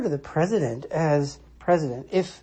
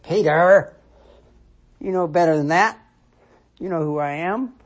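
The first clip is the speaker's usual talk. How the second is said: louder, lightly acted admonishment; mock reproof; 2 semitones higher, 5 dB louder than usual. Jesus correcting Peter for his answer, mild reproof. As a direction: correct a pupil, opening firmly on the name.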